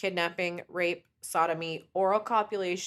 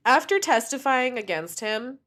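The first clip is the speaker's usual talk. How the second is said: ordinary talk, nothing marked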